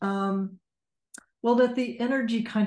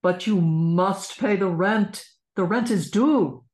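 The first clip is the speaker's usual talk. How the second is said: sneering panto villain; 4 dB louder than usual. Shown as a demonstration. Villain presses Savannah.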